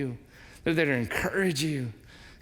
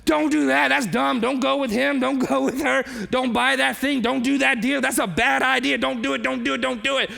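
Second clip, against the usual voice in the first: high, loud pleading no; inner shout; 6 semitones higher, 4 dB louder than usual. Retold or imitated. Pastor voices his inner alarm at a friend, loud high shout. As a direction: yell silently at a friend's bad plan. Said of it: "but inside you're like".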